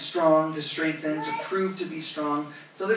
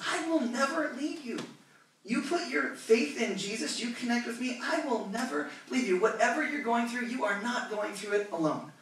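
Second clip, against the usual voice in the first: God voiced high; 6 semitones higher than usual. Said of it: "He says".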